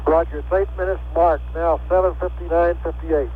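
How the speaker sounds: crackly radio transmission voice; tinny voice over a radio link; astronaut radio. Real, not acted. Crew reply over radio link.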